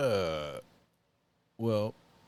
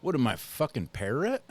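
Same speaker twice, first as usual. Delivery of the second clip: angry mobster; 6 semitones higher, 5 dB louder than usual. Retold or imitated. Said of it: "he goes".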